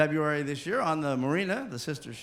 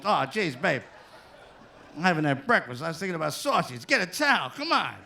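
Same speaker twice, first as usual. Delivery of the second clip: put-on Old Hans voice.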